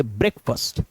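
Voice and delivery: ब्रेकफास्ट said "brek-fust", short second vowel; correct pronunciation. Shown as a demonstration. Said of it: "सही word जो है".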